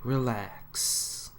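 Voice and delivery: soft, hushed reassurance; calm him down gently; soothing. A narrator's reading. Calming panicking Sonic.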